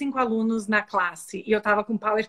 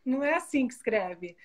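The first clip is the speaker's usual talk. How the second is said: mocking laugh; 4 semitones higher than usual. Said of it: "Levantou a mão, rindo".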